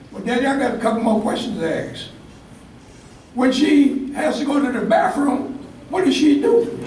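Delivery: put-on a boy holding back a giggle at his own question; small boy asking with a chuckle; curious kid. Kid voiced asking his father.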